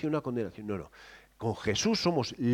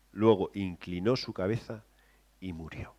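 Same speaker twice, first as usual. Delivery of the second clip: soft telling; 5 semitones lower, 6 dB quieter than usual. Shown as a demonstration. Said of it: "lo suaviza un poquito más".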